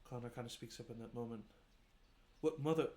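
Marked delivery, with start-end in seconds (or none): 2.4-2.9 shocked outburst. Acted. Son shocked by mother leaving.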